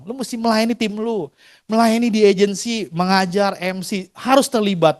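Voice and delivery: soft, calm advice from the gentle leader. Retold or imitated. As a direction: say it gently and quietly, like a peaceful mentor. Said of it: "Damai, tenang gitu ya".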